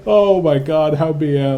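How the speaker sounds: loud amazed outburst; excited. Real, not acted. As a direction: burst out in disbelief. Caster reacts to cheeky play.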